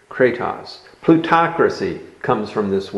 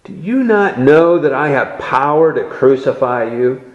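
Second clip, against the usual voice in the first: asserting authority; 3 semitones higher than usual. Acted. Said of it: "he asserts his authority".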